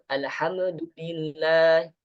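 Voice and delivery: slow careful alhamdulillah, no bounce; slow recitation. Shown as a demonstration. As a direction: chant alhamdulillah slowly. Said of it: "jangan sampai ada qalqalah".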